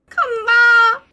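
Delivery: hyped yell as he commits; 흥분한 외침; excited shout. Real, not acted. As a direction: shout it out, all in. Streamer launching risky attempt.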